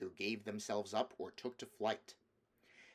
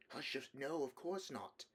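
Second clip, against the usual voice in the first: hushing sister; 4 semitones higher, 5 dB quieter than usual. Acted. Susan hushes Lucy.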